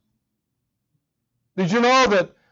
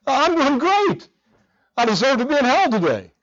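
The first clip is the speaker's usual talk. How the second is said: smiling and light, pitched up, a bit quick; with a smile; 6 semitones higher than usual. Retold or imitated. Pastor repeating his greeting reply, smiling. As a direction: beam through the words. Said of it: "again, I said it with a smile".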